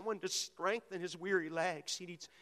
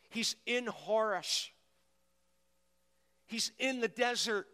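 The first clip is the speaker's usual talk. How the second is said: preaching; 4 semitones higher than usual. Acted. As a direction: build the story with fervour. Preaching the psalm story.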